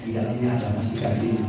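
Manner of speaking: hushed whisper of a secret offer. Retold or imitated. Preacher whispers the gold secret to the struck man, whispering. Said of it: "Saya bisikin".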